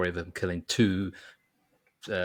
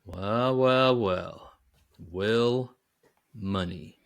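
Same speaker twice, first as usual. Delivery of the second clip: menacing sheriff; much slower than usual. Retold or imitated. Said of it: "would come over and go".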